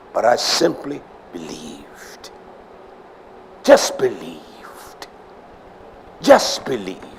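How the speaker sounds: hushed, slow whisper; soft unvoiced murmur. Shown as a demonstration. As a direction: drop to a confiding whisper. Dropping to a whisper.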